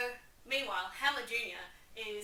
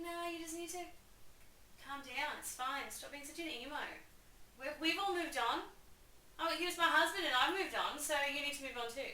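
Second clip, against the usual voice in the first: higher, preachy brush-off; hammed-up parents lecturing; dismissive parents; 5 semitones higher than usual. Mother and uncle telling Hamlet to move on. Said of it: "And they're like".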